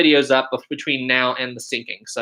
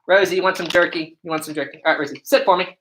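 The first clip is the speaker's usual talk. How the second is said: raised, coaxing voice to the dog; pet talk; 3 semitones higher than usual. Real, not acted. Owner offering jerky to Rosie, coaxing pet voice. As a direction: coax the dog kindly.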